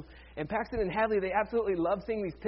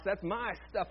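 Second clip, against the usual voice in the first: put-on Alabama twang on MY; lightly hammed-up Alabama owner; fake Alabama accent; 4 dB quieter than usual. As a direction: claim it in a mock Alabama accent. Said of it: "jumped into that fake accent".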